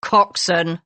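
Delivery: a mild curt snap; a clipped, offended correction; snapped correction. Acted. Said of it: "the man snapped".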